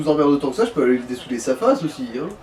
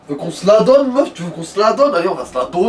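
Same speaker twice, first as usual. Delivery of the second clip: mock fight challenge; 3 semitones higher, 5 dB louder than usual.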